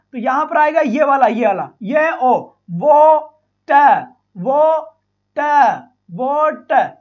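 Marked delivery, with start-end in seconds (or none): 1.3-7.0 वो ट split slowly, louder; syllable by syllable. Shown as a demonstration. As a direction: spell out वो and ट slowly. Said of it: "ये वाला symbol बनेगा". (धीरे-धीरे अक्षर-अक्षर बोलना)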